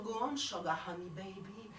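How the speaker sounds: a hint of a smooth Englishman; murmured seduction. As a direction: coo it like a crooner. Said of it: "et murmure".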